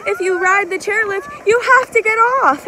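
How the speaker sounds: retold warning. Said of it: "guess what the guy told me".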